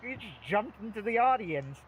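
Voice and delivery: lightly voiced confused audience member; baffled audience guy. Guy in the audience questioning Grover, lightly voiced bafflement. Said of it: "and the guy's like".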